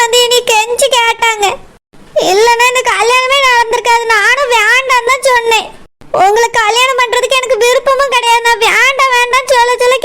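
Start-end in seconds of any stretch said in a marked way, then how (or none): 0.0-4.0 crying. Acted. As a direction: let the tears come through. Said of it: "அழுது scene போட்டு நடிக்கிறியோ". (அழுகையுடன் சொல்லுதல்)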